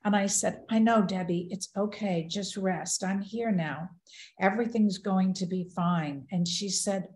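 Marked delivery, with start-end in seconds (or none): 0.7-6.3 softening, calm comforting tone; retold soothing of a sick sister; gentle reassurance. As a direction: reassure gently, settling her down to rest. Soothing sister waking from coma.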